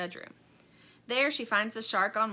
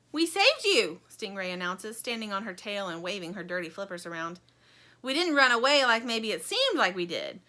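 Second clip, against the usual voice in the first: fib with a nervous laugh; Stingray defensively boasting; sheepish Stingray; 7 dB louder than usual. Acted. Stingray covering up.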